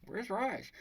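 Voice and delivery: high-pitched imitation of a woman asking; Carla. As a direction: ask in a put-on high female voice. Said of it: "and she's like".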